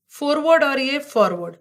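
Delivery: first फॉरवर्ड with rounded "oh", second with open "aw"; foreword-forward contrast. Shown as a demonstration. Teacher setting two look-alike words side by side, फॉरवर्ड vowels contrasted. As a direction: contrast the vowels: "FOHR-word", then "FAWR-word" for फॉरवर्ड. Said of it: "जैसे इसको ऐसे याद रखो".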